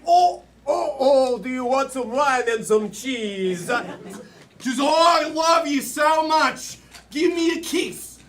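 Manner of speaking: put-on French accent. Improv player wooing a dog, hammed-up French accent. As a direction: woo like a comic French lover. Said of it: "British, French".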